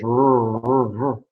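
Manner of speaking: R held long and repeated, drifting towards "zh"; drawn-out English R. Shown as a demonstration. Teacher showing R in English, held long to sound like "zh". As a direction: stretch each R out as a bare sound. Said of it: "if you even say it in English".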